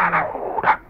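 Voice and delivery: voiceless, urgent hush. Acted. Hushing the one who cried out, urgent hush. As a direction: shush them under your breath.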